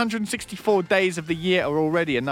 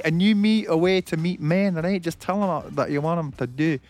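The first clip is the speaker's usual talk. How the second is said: put-on Scottish accent; jokey Scottish accent, tagging on questions; Nicola Sturgeon. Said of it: "You sound like Nicola Sturgeon".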